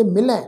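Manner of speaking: ਮਿਲੈ with a nasalised final vowel; ਮਿਲੈ ending nasal; nasal pronunciation. Shown as a demonstration. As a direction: say ਮਿਲੈ with the last vowel through the nose. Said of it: "ਨਾਸਕੀ tone 'ਚ ਪਾਠ ਉਚਾਰਨ ਕਰਾਂਗੇ".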